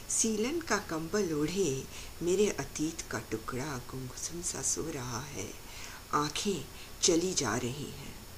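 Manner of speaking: measured, expressive verse reading with pauses; poetry recited to an audience; poem recitation. Acted. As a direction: recite it line by line, lingering on the images.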